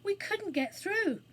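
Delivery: high, slow, despairing wail; moaning. A narrator's reading. Anthea trapped in the burning theatre, moaning. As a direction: draw it out as a hopeless moan. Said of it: "moaned Anthea".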